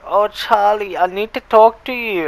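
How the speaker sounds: high, pleading mock girl voice; imitating her. Mimicking the upset girl asking to talk, high and pleading. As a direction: squeak it out like a worried girl. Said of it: "She was like".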